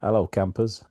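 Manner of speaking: a light hint of a holiday camp host; chirpy host greeting, lightly put on; Paul Shane holiday camp greeting. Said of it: "Paul Shane".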